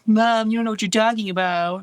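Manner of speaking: lightly voiced dismissive preteen; mock preteen daughter. Preteen telling her mom she knows nothing, mildly mocking. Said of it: "you're gonna be like".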